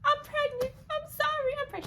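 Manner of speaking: high, quavering on the verge of crying; blurting it out before crying; near tears. Retold or imitated. Confessing pregnancy to her boss, high and near tears. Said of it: "about to, like, bawl out".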